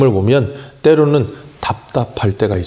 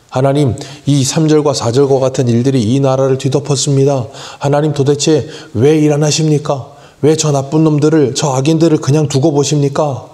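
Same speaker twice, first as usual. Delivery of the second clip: higher, raised, pleading cry to God; 5 semitones higher than usual. Retold or imitated. Believers cry out to God over the nation's evil in a raised, pleading voice. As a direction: cry out to God, demanding why he waits.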